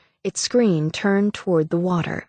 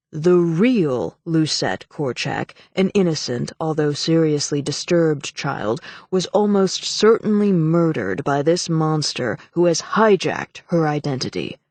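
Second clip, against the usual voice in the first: heavy intoning. Acted. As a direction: intone it gravely. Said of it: "Morland intoned heavily".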